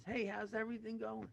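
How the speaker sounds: high-pitched, breezy hello; cheery greeting. Acted. Seller greets buyer in joke.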